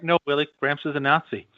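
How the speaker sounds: deadpan repeat; casual. Retold or imitated. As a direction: say it like nothing.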